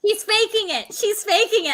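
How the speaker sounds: high mock whispers of suspicion; high-pitched mimicked doubters; imitated accusing audience. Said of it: "And people are like".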